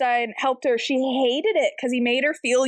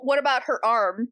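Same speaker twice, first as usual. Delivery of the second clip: ordinary talk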